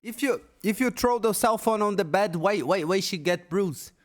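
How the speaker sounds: loud, high, incredulous yelling; angry shouting. Real, not acted. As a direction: shout it in disbelief. Angry rant at the streamer.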